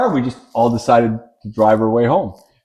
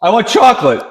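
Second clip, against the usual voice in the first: higher, demanding mock child voice; lightly voiced little girl, pitched up; imitated little daughter; 7 semitones higher, 3 dB louder than usual. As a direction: mimic a kid placing an order. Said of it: "Amy says to me".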